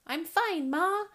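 high, chirpy little bird; chirping owlet. Acted. Small owlet reassures mother, chirping high. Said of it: "he chirped".

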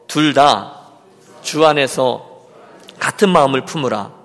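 loud, low, phrase-by-phrase recitation; leading a repeat-after-me. Shown as a demonstration. Preacher has the congregation repeat the verse, leading firmly. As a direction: call it out slowly for others to repeat. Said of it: "따라해 주세요".

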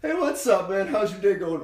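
chill centaur voice. Retold or imitated. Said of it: "You get the".

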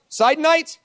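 lightly voiced doubter from the crowd; mock questioner. Voicing a questioner in the Q&A.

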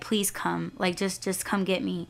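soft, restrained plea; trying to stay calm. Retold or imitated. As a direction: imitate someone keeping calm while asking for help. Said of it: "he was trying to remain calm".

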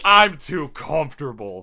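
loud, slow mocking repeat; teasing imitation of a whiner; mocking echo. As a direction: drag out the friend's lazy excuse. Mockingly repeats the friend's excuse.

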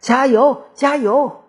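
high, loud chant of support; cheerleader. A narrator's reading. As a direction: cheer the team on at full voice. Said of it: "双方啦啦队大声呐喊".

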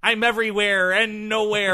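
dramatic hacker line through voice changer; morphing voice. Pretend. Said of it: "your voice changer died".

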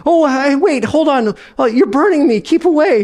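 a ghost flinching from the heat; alarmed ghost. Acted.

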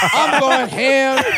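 slow, high, shouted boast; hyped shout. Retold or imitated. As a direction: belt it like she's hyped. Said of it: "She's like".

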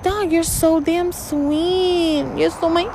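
put-on high, slow, half-sobbing baby talk; mock crying. Scolding her beloved dog, hammed-up teary whimper. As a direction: whimper it like you're about to cry. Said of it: "Because I'm like".

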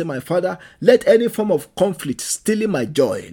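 loud, forceful prayer at full voice; preaching prayer. Acted. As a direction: cry out to the Lord, pleading hard. Leading prayer.

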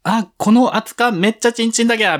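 put-on camp up the Nagoya accent at a bar; 大げさな名古屋弁; hammed-up Nagoya dialect. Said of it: "みたいなこと？".

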